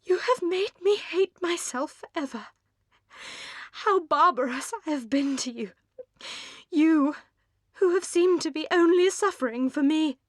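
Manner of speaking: put-on high, pleading young woman's voice; remorseful outcry. A narrator's reading. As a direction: pour out the guilt to her sister. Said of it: "she cried".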